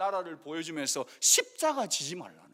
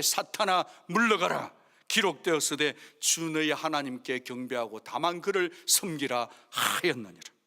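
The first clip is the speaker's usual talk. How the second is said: preached rebuke; 3 semitones lower than usual. Retold or imitated. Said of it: "호통을 치는 거예요".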